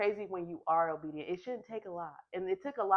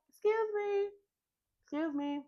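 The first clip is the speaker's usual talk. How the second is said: calling after her. Retold or imitated.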